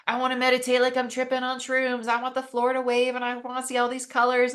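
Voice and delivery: high, loud, eager mock wish; eager wanting. Eager meditator wanting big visions, high and loud. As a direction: play the meditator craving a trip.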